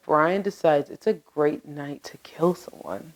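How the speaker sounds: hushed ominous whisper. Acted. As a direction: drop to a whisper for the dark part. Dramatic true crime narration.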